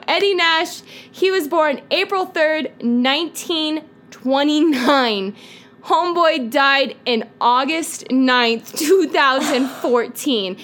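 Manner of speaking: slow, drawn-out mock presenter; put-on persona. Introducing Eddie Nash to the co-host, slow persona. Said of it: "why are you giving personas".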